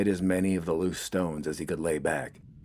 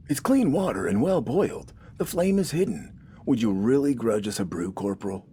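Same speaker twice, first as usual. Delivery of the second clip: put-on higher, tired plea from an old farmer; weary older man; 6 semitones higher than usual. A narrator's reading. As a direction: reason with him, wearily. Nathan pleads for his brew.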